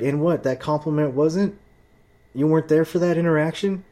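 high, loud, whiny mock defender; mocking the clerk. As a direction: nag on his behalf in a squeaky voice. Mocking the White Knight clerk.

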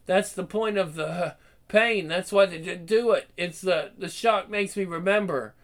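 stammering, frightened, broken phrases; delirious rambling. Acted. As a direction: fight through terror, words falling apart. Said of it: "He's delirious, rambling".

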